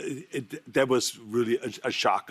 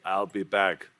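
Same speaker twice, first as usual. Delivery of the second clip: lower-pitched catchphrase take; alternate line reading; 4 semitones lower than usual. Shown as a demonstration. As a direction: drop the line lower, deadpan movie take. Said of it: "Say ten different ways".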